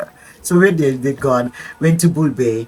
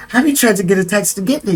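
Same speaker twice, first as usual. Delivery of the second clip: quicker, higher imitation of herself; rapid retold plea; 4 semitones higher, faster than usual. Stranded visitor explains the taxi trouble, rapid higher delivery. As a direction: rattle it out, imitating your hurried self. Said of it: "I'm talking like this".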